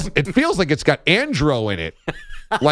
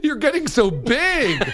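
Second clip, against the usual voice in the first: put-on baby talk; 13 semitones higher than usual. Cooing to baby.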